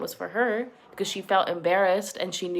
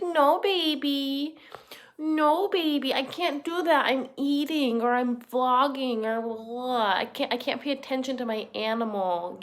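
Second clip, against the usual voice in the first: mocking Amber; 2 semitones higher than usual. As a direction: brush off the cat in a bored, whiny mock. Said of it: "Amber would be like".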